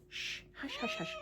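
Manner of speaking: hushed, high shushing; quick soft hushing aside. Real, not acted. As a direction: shush softly, barely voiced. Shushing someone mid-recording.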